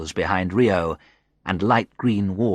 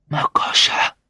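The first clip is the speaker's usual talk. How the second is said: more forceful whisper; 3 dB louder than usual. A narrator's reading. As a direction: push the name out in a whisper. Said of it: "I managed to whisper".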